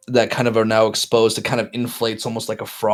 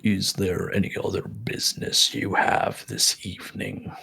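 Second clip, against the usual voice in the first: softer, measured creature voice; ghoulish creature; 6 dB quieter than usual. Acted. Game master's ghoul asks the party their business, soft and formal. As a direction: speak softly as a formal old ghoul.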